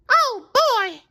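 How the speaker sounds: high surprised cry; cried out. A narrator's reading. Sandy crying out at the giant Gary. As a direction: gasp it out, shocked. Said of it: "cried Sandy".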